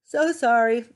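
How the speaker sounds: hiccuping between words; interrupted by hiccups. Real, not acted. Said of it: "I got hiccups".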